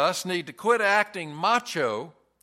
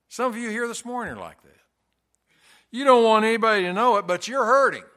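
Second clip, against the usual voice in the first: urgent plea; 5 semitones higher, 5 dB louder, faster than usual. Real, not acted. Preacher presses the point.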